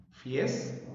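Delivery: "Fiesta" split into fies, ta; "Fiesta" in two detached syllables. Shown as a demonstration. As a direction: separate "Fiesta" with a gap after fies. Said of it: "Sílabas".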